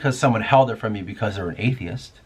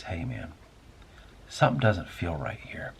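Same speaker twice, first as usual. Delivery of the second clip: hushed and low, much softer; very quiet voice; 7 semitones lower, 11 dB quieter than usual. Retold or imitated. Inner voice quietly warning the doubter, soft and hushed. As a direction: whisper it like an inner voice. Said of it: "in a very quiet voice".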